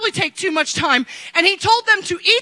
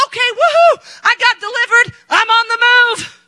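mock cheering; 3 semitones higher than usual. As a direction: parody a giddy churchgoer cheering. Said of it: "we think".

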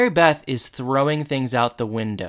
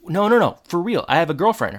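high, louder frantic protest; mock frantic refusal; 6 semitones higher, 4 dB louder, faster than usual. Corey refuses Mary Beth's advances, high, loud and frantic. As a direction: blurt the refusal in a rush of panic.

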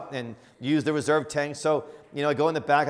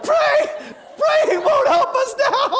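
very high, loud, drawn-out shriek; hammed-up hysterical shout; acted panicked yell; 10 dB louder, much slower than usual. Husband answering praying wife, high hysterical shout.

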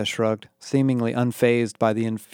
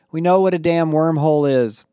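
defensive bluff; 5 semitones higher, 5 dB louder than usual. A narrator's reading. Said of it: "I lied".

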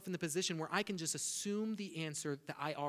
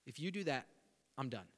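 threatening God; 7 dB louder than usual. Retold or imitated. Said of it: "Sometimes it looks like a threat".

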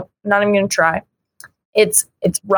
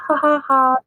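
imitated small laugh; 6 semitones higher than usual. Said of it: "and then she starts laughing".

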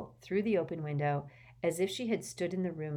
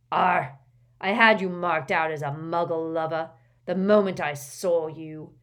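sneering; 10 dB louder than usual. Acted. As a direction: sneer it out with contempt. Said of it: "sneered Gaunt".

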